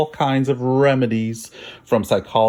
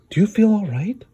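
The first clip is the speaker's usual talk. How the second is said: mother's voice; 11 semitones higher than usual. Acted. Mother worried about sick child.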